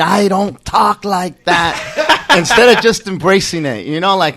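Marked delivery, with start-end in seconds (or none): 0.0-2.3 mild mock yell, drawn out; retold upset scream. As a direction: protest slowly in a higher voice.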